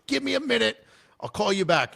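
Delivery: losing his temper on the phone; angry outburst. Retold or imitated. Sergeant major furious on the phone with a sergeant, snapping.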